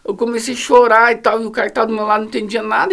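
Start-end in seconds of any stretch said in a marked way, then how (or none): none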